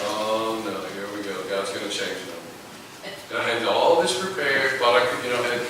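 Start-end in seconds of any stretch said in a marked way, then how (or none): 0.1-3.1 mock dismay. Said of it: "and I go".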